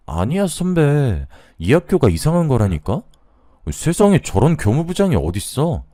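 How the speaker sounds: high, emphatic protest on a friend's behalf; insistent reassurance. A narrator's reading. Junior to senior thinking of quitting teaching, insistent reassurance. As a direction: talk them out of self-doubt, emphatically.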